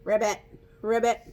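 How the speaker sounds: mock froggy ribbit; playful frog noise; frog croak. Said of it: "I liked making the noises".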